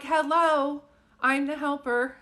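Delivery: loud, high, chirpy hello; cheery helper. Retold or imitated. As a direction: announce yourself brightly as the helper. Medium voicing the cheery helper.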